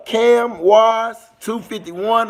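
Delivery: slow, loud, stretched-out name call; drawn-out shoutout. Real, not acted. Streamer calling out a chat viewer by name, slow and loud. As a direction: stretch the username out loud like an announcer.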